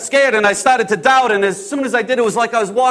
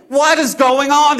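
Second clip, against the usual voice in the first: high, slow, frustrated demand; exasperated; 6 semitones higher, 4 dB louder, slower than usual. Acted. Disciple baffled by God's U-turn on plans, exasperated. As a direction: demand it, stretching each word.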